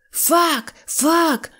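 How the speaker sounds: high, eager "фак, фак" in place of "так"; joyful yes. A narrator's reading. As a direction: cry yes gladly, nodding. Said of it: "зраділо закивав головою Скуперфільд". (радісно, високо "фак, фак")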